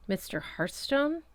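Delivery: fearful. A narrator's reading. Wildflower recognizes Hearthstone and asks in fear. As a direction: ask with sudden fear. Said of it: "expression shifted from contempt to fear".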